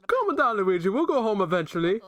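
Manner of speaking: high character voice. Acted. Voicing game dialogue to Luigi.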